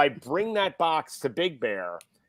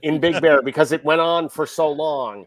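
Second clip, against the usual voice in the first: laughing while talking; 2 semitones higher, 5 dB louder than usual. Real, not acted. Laughing while telling the story.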